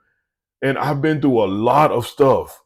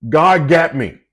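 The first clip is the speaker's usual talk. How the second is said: bold David. Retold or imitated. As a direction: tell it straight to his face. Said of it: "He told Saul in his face".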